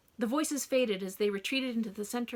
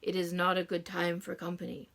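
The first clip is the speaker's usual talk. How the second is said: droning; 4 semitones lower than usual. Acted. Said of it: "Mister Darling droned".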